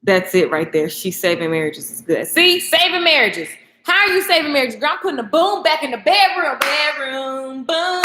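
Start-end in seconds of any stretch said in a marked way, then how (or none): 2.3-8.0 playful brag. Pretend. Playful mock dialogue with herself.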